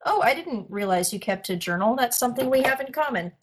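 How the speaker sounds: quick, feigned nonchalance; breezy cover-up, said fast; acting casual. Player approaches a friend as if nothing weird happened, acting casual. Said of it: "trying to act casual".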